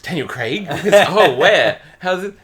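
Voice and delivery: high, loud, laughing excitement; excited fans. Retold or imitated. Passengers hearing Daniel Craig's name, mock excited high squeal. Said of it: "everybody was like".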